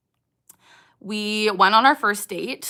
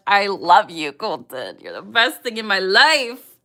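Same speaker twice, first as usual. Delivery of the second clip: gushing affection; 5 dB louder than usual. Real, not acted. Gushing directly to boyfriend on stream.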